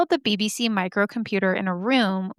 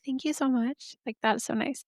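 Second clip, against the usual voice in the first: soft, higher-pitched mock gratitude; touched; 3 semitones higher, 7 dB quieter than usual. Imagined reply to a computer that wrote poetry, softly touched. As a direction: gush gently, much softer than usual.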